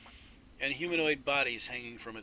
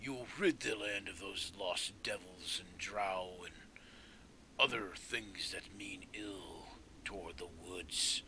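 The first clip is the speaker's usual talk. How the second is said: solemn tree; 4 semitones lower than usual. Acted. Tree creature asks for a promise.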